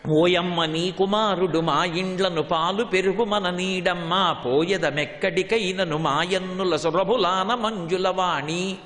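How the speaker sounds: slow, measured Telugu verse recital; slow classical Telugu poem reading; padyam recitation. Acted.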